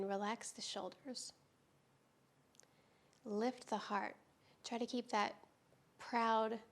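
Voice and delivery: calm, unhurried yoga teacher with long pauses; guided yoga meditation. Real, not acted. Teacher easing students into restorative yoga, calm guided-meditation delivery. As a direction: guide them gently through breath and stretch, leaving space between phrases.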